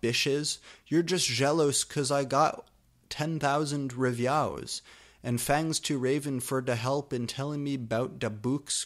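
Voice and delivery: put-on brash goth teen voice; mock author voice. Author taunting jealous readers in a hammed-up brash voice. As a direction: sass the haters in character.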